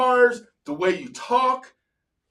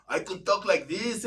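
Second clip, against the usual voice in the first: code-switch voice; 5 dB quieter than usual. Shown as a demonstration. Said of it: "I learned how to code switch".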